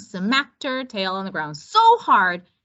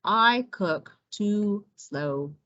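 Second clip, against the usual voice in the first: slow tortoise voice; slower than usual. Acted. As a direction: drag each word like a tired tortoise. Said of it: "said Tortuga".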